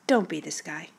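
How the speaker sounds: normal talking voice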